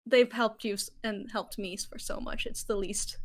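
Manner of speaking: B urging Galen to help his friends, mildly tearful; through tears. Acted. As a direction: push the words out while wiping tears. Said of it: "more ugly crying now".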